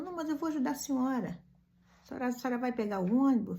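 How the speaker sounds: put-on quick and eager like the street kid. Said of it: "aquele jeitinho dele".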